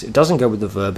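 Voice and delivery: "doesn't" leaned on in contrast; teacher weighting "doesn't" against "goes"; stress on doesn't. Shown as a demonstration. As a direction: punch "doesn't" to set up the contrast. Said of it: "it goes with the object".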